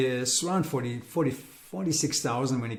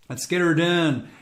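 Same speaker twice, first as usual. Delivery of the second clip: put-on slow, louder Midwestern redneck accent; 4 semitones higher, 6 dB louder than usual. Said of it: "how was that for my, um, Western, Midwestern accent".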